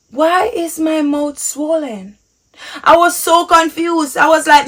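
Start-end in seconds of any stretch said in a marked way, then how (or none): 0.1-2.2 baffled question. Retold or imitated. Retells own baffled reaction, drawn out.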